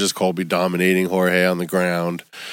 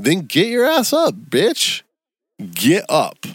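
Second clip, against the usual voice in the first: heated yell; 8 semitones higher, slower than usual. Real, not acted. Yelling at the loser.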